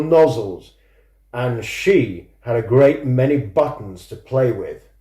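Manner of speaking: measured, even storytelling read; story narration. A narrator's reading. Author reading his own book extract, steady narration. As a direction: read the extract to listeners, unhurried.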